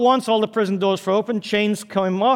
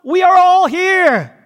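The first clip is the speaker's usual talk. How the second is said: loud, high-pitched shout, words drawn out; urgent shout; 11 semitones higher, 8 dB louder, slower than usual. Acted. Paul shouting to the jailer about to kill himself, urgent shout. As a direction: shout to stop someone in the nick of time. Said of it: "Paul shouted".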